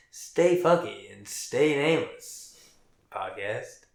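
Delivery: slow, drawn-out sign-off line; podcast sign-off. Acted. Host closing the episode with the sign-off, slow. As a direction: sign off the show slowly, with weight. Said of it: "you should do the honors".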